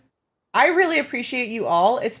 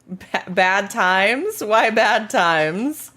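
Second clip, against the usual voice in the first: puzzled echo; much slower than usual. Real, not acted.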